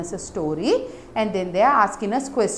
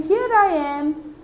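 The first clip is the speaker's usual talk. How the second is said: mock shout; 7 semitones higher, slower than usual. Shown as a demonstration. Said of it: "So, that means in".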